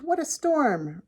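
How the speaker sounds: high, drawn-out bird twitter; twittering wren. A narrator's reading. Wren exclaims to friends about the storm, twittering. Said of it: "twitters wren".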